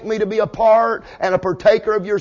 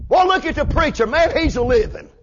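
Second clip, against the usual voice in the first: high, hammed-up amazement; mock admiration; 7 semitones higher than usual. Preacher mocking onlookers admiring his life, hammed-up wonder. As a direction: gush in fake awe, leaping up high on the wow.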